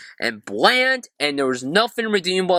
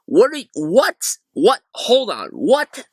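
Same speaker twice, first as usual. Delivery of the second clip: high, rising incredulous whats; mock disbelief; 7 semitones higher, 4 dB louder, slower than usual. Real, not acted. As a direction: sputter in fake shock.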